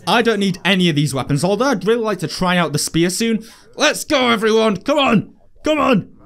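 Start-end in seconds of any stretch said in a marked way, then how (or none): 3.7-6.2 rally the crowd to get going; pumped-up calling out; hyping the crowd. Acted.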